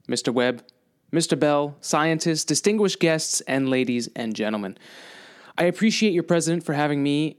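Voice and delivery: lightly voiced presidential oratory; JFK speech recital. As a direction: deliver it like a measured speech. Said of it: "I want to recite a chunk of J F K's speech".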